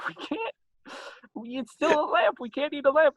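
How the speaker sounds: high-pitched comic protest; mock exasperation. Couple refusing to eat a lamp, mock exasperation. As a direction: squeal the objection in disbelief.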